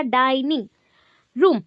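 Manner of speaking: "डाइनिंग ... रूम" pulled apart, each word weighted; stress on both words. Shown as a demonstration. Teacher breaking down the compound, "डाइनिंग" and "रूम" separately stressed. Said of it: "आर पे focus किया and डाइनिंग पे".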